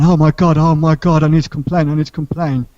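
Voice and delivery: loud, high panicked imitation; mock panic. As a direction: act out a coworker flapping in alarm. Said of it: "She started panicking".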